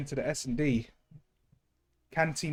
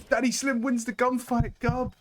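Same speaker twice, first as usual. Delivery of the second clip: high, loud excited yell; grenade warning yell; 11 semitones higher, 4 dB louder than usual. Real, not acted. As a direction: shout it as the play unfolds. Caster reacts to tense gunfight.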